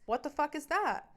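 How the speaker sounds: hammed-up retelling of snapping at him; retold outrage. Scene: the speaker retelling how she confronted her boyfriend, angry and exasperated. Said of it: "I'm like".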